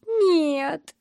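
high, drawn-out, falling cry; tearful wail. A narrator's reading. Heartbroken girl asked about the boy, wailing. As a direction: let the word slide down in misery. Crying girl wails her answer.

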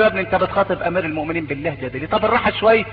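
low, soft, quick reproach; calm the man down quietly; hushed scolding. Retold or imitated. Companion hushing the rebuker, low and soft.

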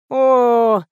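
drawn-out groaning "О"; a weary moan of dread. A narrator's reading. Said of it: "простонала Лиза". (стон)

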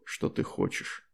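whispered low temptation; seductive whisper. Acted. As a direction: breathe the promise in a whisper. Demon's seductive offer trails off. (соблазнительный шёпот)

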